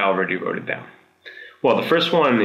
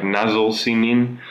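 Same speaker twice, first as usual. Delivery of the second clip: "Nasıl senin?" read slowly as written; slow spelled-out reading; 2 semitones higher, much slower than usual. Shown as a demonstration. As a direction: read each word slowly off the page. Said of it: "I write it like".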